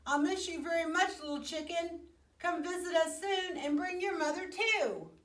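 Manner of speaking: lightly voiced child. A narrator's reading. Jessica saying goodbye.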